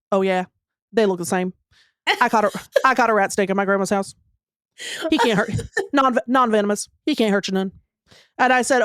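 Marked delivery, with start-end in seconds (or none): 0.1-7.7 lightly voiced flat little boy, lower, quick; a hint of a stoic kid from the swamp, deadpan; mild imitation of an emotionless eight-year-old boy; Southern swamp boy. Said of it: "impression of this boy".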